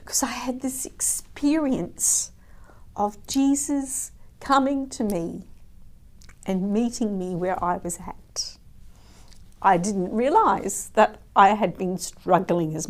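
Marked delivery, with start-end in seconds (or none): 0.0-8.6 voice breaking. Real, not acted. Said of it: "kept on sobbing".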